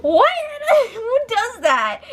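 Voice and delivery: laughing through a high, slow question; giggly incredulous question; laughing disbelief. Real, not acted. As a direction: laugh while you ask it. Laughing at the story.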